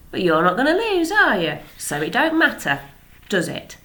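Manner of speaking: lightly voiced farmer, sly and quick; a hint of a crafty farmer; farmer father. Father teases rival into bet.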